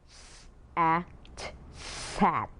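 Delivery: s and at said apart, then sat; sounding out words. Shown as a demonstration. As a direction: split sat into s and at. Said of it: "will become".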